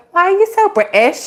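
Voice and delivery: high-pitched mimicked child; imitated kid. Mom mimicking her daughter walking around, high kid imitation. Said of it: "this one over here walks around going".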